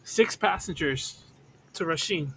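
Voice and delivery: soft, slow aside to a companion; feed the line under your breath; whispered prompt. Acted. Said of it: "I'm, like, whispering to you".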